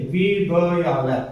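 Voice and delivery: very slow, each syllable of वी ब या ल pulled apart; slow spelled-out syllables. Shown as a demonstration. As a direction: spell out वी ब या ल slowly, piece by piece. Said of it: "अब इसको ऐसे बोलिए".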